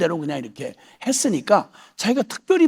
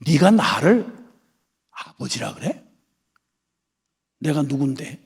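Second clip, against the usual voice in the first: stern voice of God; 5 semitones lower than usual. Retold or imitated. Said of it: "냉정하신 준엄한 목소리로". (냉정하고 준엄한 하나님 목소리를 살짝 흉내 내어)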